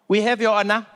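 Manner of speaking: lightly put-on South African accent; South African juror answering in court. Juror answering the judge, South African accent. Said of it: "imagine a South African jury".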